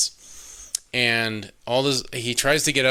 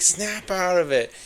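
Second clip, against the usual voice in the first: higher, slow snap-out order; a lightly hammed-up stern command; mock firm command; 7 semitones higher than usual. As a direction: order her out of the trance. Hero shaking the heroine awake.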